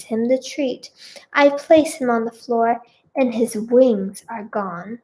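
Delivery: measured, clearly projected storytelling; story narration. A narrator's reading. Reader tells her own story to listeners, narrating. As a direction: read it out like an audiobook.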